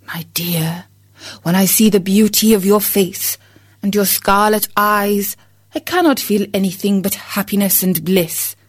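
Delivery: woo her gently; tender. Acted. Rooster speaking tenderly to his wife, whispered start. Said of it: "spoke to her tenderly".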